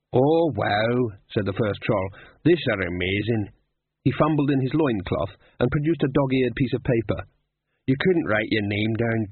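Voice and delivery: eager dim troll, hopping about; thrilled fan troll; excited troll voice. Acted.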